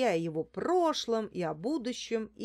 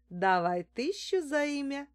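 mild higher-pitched order; name your price as an order; commanding; 7 semitones higher than usual. A narrator's reading. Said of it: "велела я". (повелительно)

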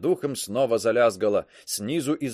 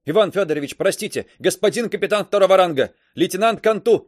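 shouting; 6 semitones higher, 5 dB louder, faster than usual. A narrator's reading. Shouting into speaking tube.

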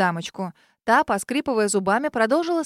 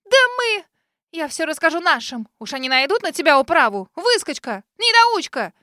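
much higher and louder, spluttering; sputtering tirade; 6 semitones higher, 6 dB louder than usual. Acted. Lady threatens the girl with her kin, spluttering rage. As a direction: choke on rage then spit insults.

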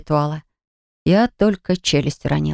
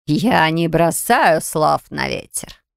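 dark entity voice; much slower than usual. Acted.

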